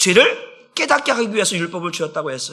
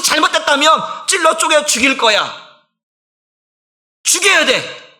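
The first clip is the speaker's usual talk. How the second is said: fiery preaching; 5 semitones higher than usual. Acted. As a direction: thunder God's warning at the congregation. Preaching at full force.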